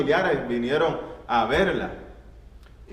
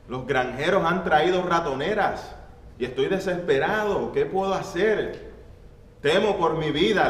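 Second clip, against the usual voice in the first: higher, pleading frightened mouse voice; desperate mouse; 5 semitones higher than usual. Acted. Mouse pleading with the hen, higher and frightened. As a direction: beg for your life, a small scared mouse.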